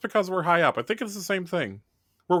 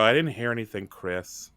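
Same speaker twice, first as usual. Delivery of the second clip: bored sigh; 4 semitones lower than usual. Acted. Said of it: "I just sigh and I go".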